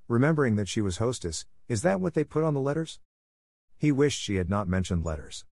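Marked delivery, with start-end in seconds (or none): 1.7-3.0 politely inquiring, high rising pitch; said nicely. A narrator's reading. Hostess asking her guest about letters, said nicely. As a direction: ask nicely, lifting the pitch. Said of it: "Wendy said nicely".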